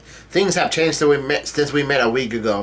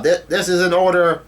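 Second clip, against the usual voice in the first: mock commanding yell, pitched up; retold yell; 5 semitones higher, 3 dB louder than usual. Capone gives an order to his crew, mild mock yell. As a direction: imitate a boss's order with half-raised voice. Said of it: "Capone yells out".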